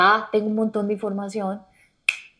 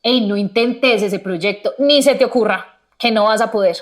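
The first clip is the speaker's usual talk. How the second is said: harsh self-talk; 5 dB louder than usual. Retold or imitated. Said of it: "decirle a tu pareja".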